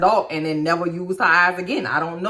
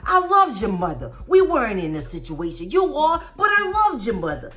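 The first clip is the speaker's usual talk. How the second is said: put-on hollering old man; 12 semitones higher than usual. Steve hollering at Brady over the pregnancy, hammed-up rage. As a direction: keep yelling at the boy in disbelief. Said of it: "He was mad. He was hollering".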